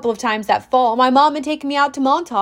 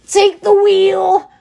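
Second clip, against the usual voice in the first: loud, slow desperate plea; a frightened satyr begging the god; 7 semitones higher, 8 dB louder, much slower than usual. A narrator's reading. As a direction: beg for help, panicked. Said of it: "Grover begged him".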